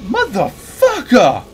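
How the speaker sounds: angry. Real, not acted. Angry at monster.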